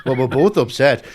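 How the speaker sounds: flustered mock apology, rising into exasperation; apologising husband. Sellers on the phone like a man apologising to his wife, mock-flustered. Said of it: "like somebody apologising to the wife".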